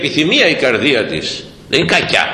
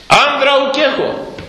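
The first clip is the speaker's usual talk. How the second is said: much higher and slow, the woman's voice; 12 semitones higher, slower than usual. Retold or imitated. Preacher voicing the Samaritan woman's reply in a high, slow voice. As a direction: lift it high and draw it out. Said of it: "the woman's reply, quoted".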